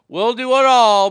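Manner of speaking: loud peak of the rant; shouting. Real, not acted. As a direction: belt it out in frustration. Ranting about sacrifice.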